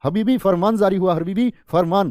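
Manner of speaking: फरमान with an F, 'farmaan'; Arabic-style pronunciation. Shown as a demonstration. Teacher mimicking Arabic use, फरमान with F. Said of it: "एक तो हम बोलते हैं फरमान".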